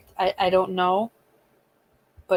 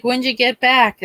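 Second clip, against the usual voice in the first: eager son voice; 5 semitones higher, 8 dB louder than usual. Retold or imitated. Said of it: "he'll be like".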